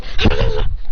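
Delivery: rapid-fire blow noises; attack sound effect. Acted. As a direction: imitate a flurry of kicks with the mouth. Imitates blows while kicking.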